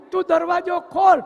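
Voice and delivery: loud, firm order to open the door; shouted demand. Retold or imitated. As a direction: bang out the command. Wife threatens husband at door. (પત્ની પતિને બારણું ખોલવા બૂમ પાડીને કહે છે)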